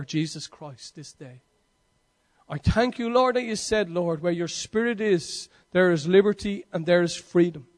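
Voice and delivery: earnest closing prayer, lightly voiced. Pastor prays for the church's freedom from addiction, earnest.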